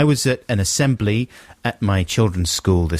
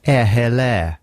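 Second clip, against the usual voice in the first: posh English vowels; posh English accent; slower than usual. Acted. Demonstrating the written-down trick, posh English accent. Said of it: "makes you sound posh".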